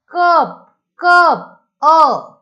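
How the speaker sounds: कप twice, loud and high, then अ alone; teacher modelling the अ in कप; short "uh" vowel. Shown as a demonstration. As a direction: punch out कप, कप and isolate its "uh", अ. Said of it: "अ असा होतोय".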